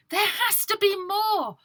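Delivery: put-on high, determined girl voice. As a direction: refuse to give up. Ida insisting.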